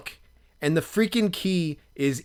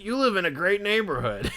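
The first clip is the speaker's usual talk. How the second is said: mock enthusiasm; 7 semitones higher than usual. Friend's cheerful praise, played for laughs.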